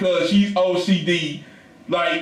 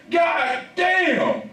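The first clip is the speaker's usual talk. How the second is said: high drawn-out curse, raised; frustrated yell at the mess; exasperated shout; 10 semitones higher than usual. Retold or imitated. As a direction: cry it out in frustration. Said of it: "I'm like".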